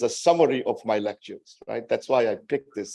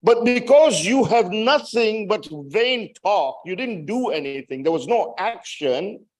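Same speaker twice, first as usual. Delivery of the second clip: high-pitched, forceful reproach; impassioned accusation; 7 semitones higher than usual. Retold or imitated. Preacher voicing the charge against the people of Kufa, impassioned. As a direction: press the retold charge home.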